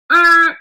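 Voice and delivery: short, loud buzzer-like "ah"; abrupt sound to mark a stop; halting noise. Shown as a demonstration. Voices the period's halting noise.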